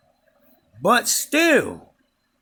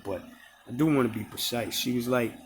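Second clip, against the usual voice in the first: ordinary talk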